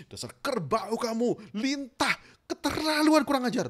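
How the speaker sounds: slow, rising angry name-calling; glaring insults. Shown as a demonstration. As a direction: glare and build the insults up. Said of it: "Mata melotot".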